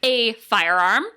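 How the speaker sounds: high-pitched, exasperated objection; retold protest. Host objects to co-host's idea of arming a kitty, high mock protest. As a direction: plead the obvious, pitched well up. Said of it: "I was like".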